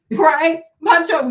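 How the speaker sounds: normal talking voice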